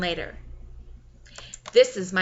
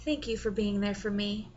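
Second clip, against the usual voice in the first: soft whisper; 5 dB quieter than usual. Acted. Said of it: "A slight whisper leaves my mouth".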